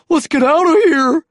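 high, loud order to flee; loud, high-pitched alarm; urgent shout. A narrator's reading. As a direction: shout to the gang to run. Dinosaurs fleeing the crowd.

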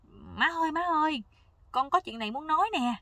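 hoog en luid, buiten adem van blijdschap; opgewonden roepen. Acted. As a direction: roep je moeder, stralend van vreugde. Child runs home to mother.

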